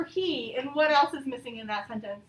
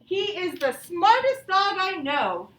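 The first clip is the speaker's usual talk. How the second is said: excited reading; 3 semitones higher, 5 dB louder, slower than usual. Shown as a demonstration. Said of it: "we're showing excitement".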